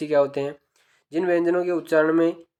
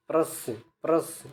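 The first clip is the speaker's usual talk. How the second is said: slow drilled syllable; 3 dB quieter, slower than usual. Shown as a demonstration. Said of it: "इसको ऐसे याद करोगे".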